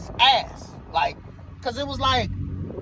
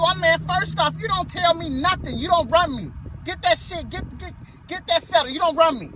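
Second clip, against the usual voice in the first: raised, forceful comeback; heated retort; 4 semitones higher than usual. Retold or imitated. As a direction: put him in his place, heated. Confronting the aggressive white man.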